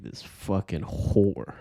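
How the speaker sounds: slow, breathy half-whisper; retold muttered disgust. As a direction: mutter it slowly under your breath, as a retold thought. Retold reaction to phone insult.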